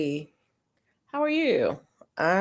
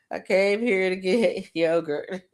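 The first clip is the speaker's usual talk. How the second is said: slow retold line breaking into laughter; laughing self-reminder; 3 semitones higher, 4 dB louder than usual. Shopper reminding herself of her errand, laughing slowly. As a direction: crack up as you repeat it.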